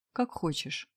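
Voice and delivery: soft sleepy mumble; mumbled. A narrator's reading. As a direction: murmur it half-awake. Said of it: "пробормотала малышка". (бормоча)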